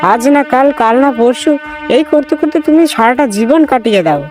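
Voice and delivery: high-pitched wifely scolding; angry wife. Acted. Wife fed up with husband's endless promises, angry high scolding. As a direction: berate him in a very high voice. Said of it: "বেলা আমার ওপর রেগে গেল".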